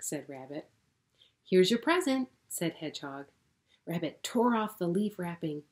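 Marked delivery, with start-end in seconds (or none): 1.4-2.3 high and loud, bursting with pride; eager gift-giving. Acted. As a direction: present it proudly. Hedgehog gives gift.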